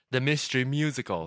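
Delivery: fading repeat echo. Shown as a demonstration. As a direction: let the echo die away. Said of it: "John, stop it".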